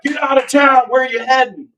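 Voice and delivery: put-on high, strong Philly accent; JoJo Philly accent. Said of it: "I do his perfect Philly accent too".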